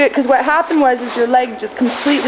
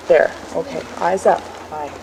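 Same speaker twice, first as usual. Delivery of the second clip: reassuring; 5 semitones lower, 7 dB quieter than usual. Real, not acted. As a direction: gently soothe the horse. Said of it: "So see, I just reassured her".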